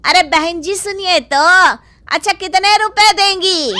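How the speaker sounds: shopkeeper luring a customer; pushy shopkeeper. Acted. Shopkeeper bargains. (दुकानदार का लुभाता अंदाज़)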